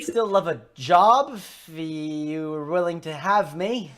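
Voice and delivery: a hint of an eager stranger; hopeful stranger. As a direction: ask for work, slowly and projected. Stranger asks for a job.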